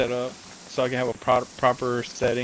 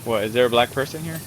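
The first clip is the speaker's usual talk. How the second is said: mimicking a lisp; 3 dB louder, faster than usual. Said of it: "You're having too much fun with that one".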